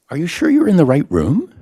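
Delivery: high, loud incredulous question; mock doubtful. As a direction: ask the audience in playful disbelief.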